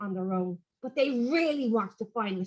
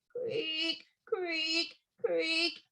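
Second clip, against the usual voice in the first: soft creaks; 5 semitones higher, 8 dB quieter, much slower than usual. A narrator's reading. Rope noise imitated.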